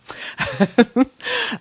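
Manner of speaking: a short real laugh at a student mistake; bright burst of laughter; amused laugh. Real, not acted. Teacher amused by student's punctuation.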